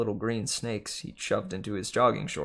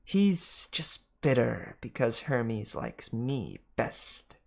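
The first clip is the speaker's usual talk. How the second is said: Martha the snake; much slower than usual. Acted. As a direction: brush George off sweetly. Martha teasing.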